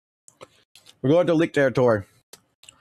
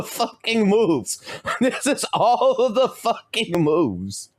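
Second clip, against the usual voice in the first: laughing disbelief; 8 semitones higher, much slower than usual. Real, not acted. Laughing at huge move list.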